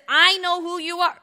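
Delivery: high, loud outcry; crying out. Acted. Spirit recognizing Jesus, crying out. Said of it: "starts to cry out".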